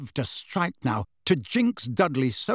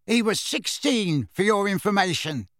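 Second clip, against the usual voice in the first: indignant higher-pitched snarl; 6 semitones higher than usual. A narrator's reading. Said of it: "snarled Dudley".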